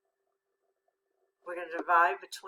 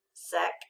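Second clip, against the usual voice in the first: "Sec-ret" split by a long pause; syllables read separately; 3 semitones lower than usual. Shown as a demonstration. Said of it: "let's read that first syllable again".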